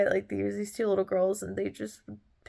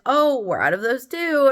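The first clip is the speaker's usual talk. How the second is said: high, louder imitated apology; apologetic taco seller; 7 semitones higher, 6 dB louder than usual. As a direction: play the sorry vendor turning a customer down. Acting seller breaking bad news.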